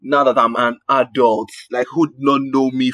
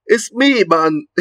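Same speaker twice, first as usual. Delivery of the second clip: high, playful insistence; high excited reply; 9 semitones higher, slower than usual. Retold or imitated. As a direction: squeak it out, amused. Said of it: "I'm like".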